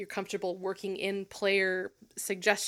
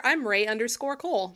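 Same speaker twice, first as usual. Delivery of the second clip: normal talking voice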